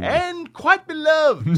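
slow, high, reverent drawl; mock reverent. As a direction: say it like sacred text. Mock reverent about source.

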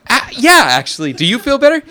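high, loud laughing voice; giddy laughing dad voice; laughing reply. Retold or imitated. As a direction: laugh it out, delighted by the kid. Dad answering daughter, laughing.

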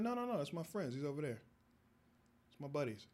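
high, flustered backpedaling; nervous denial. Retold or imitated. Young man dodging guard's question, high and nervous. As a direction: squeak out an excuse. Nervously denying hat is his.

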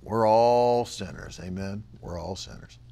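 low, soft sanctimonious murmur; sighing mock humility; mock pious Christian. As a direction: imitate a resigned churchgoer. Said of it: "Why do people say that?".

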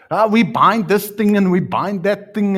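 loud, high parody of fervent prayer; mock praying. Preacher parodies people who bind and loose out of context, mock praying. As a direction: rattle it off as a mocking imitation of prayer. Mimics wrongly used prayer.

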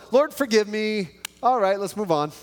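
high, breezy throwaway prayer; rushed mock prayer. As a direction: toss off a prayer to get it over with.

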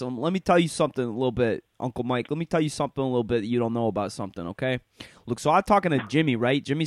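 lightly voiced know-it-all neighborhood bro; New York bro Sammy. Imitating Sammy, the bro from the deli, lightly voiced. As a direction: lay it on like the deli guy who knows everything. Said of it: "dude, he talks like this".

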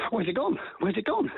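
high, sing-song questions rising at the end; playful searching. Shown as a demonstration. Trainer teasing the dog at the drawer, playful searching. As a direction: pretend the toy has vanished to tease a dog. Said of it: "put it in the drawer and go".

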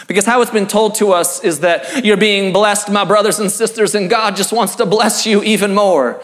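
a light Southern accent, mocking the prosperity preacher. To post-evangelicals, a mock Southern accent as a prosperity preacher. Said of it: "I go to my Southern voice for that".

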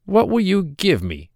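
a droll little man, sly and teasing; hobgoblin voice. Acted. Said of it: "said the hobgoblin".

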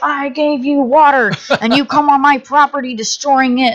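hammed-up, high-pitched reproach; mock indignation. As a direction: imitate an outraged property owner telling off trespassers. Indignant property owner, acted out.

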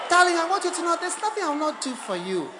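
loud, high declaration of love; hammed-up adoring speech; mock devoted wife. Acted spouse's overblown public declaration.

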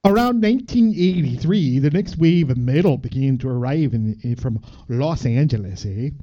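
Canadian reading aloud; Canadian accent. Acted. Reading about eighties metal as a Canadian, Canadian accent. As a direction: read it out in a folksy Canadian accent, with eh. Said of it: "read by a Canadian".

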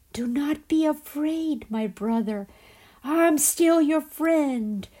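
high, slow hissing serpent voice; hissing serpent dragon. Acted. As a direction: hiss it across the water like a serpent. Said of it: "the serpent hissed across the water".

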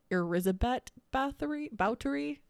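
"Elizabeth" as air-ZHEH-bet, attempted Hungarian; technically correct pronunciation. Shown as a demonstration. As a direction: try "Bathory", then correct to "Báthory" as BOW-tuh-ree. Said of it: "If we wanna get real tech".

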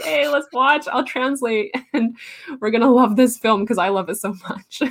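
playfully imitated childlike enthusiasm; eager childhood self. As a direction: act out a kid rallying friends. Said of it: "and be like".

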